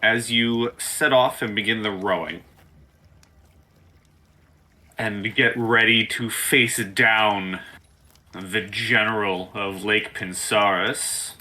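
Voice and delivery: slow, deliberate scene setting; game master narration. Acted. Game master sending players rowing off to face the general, slow suspenseful narration. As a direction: draw it out toward a cliffhanger.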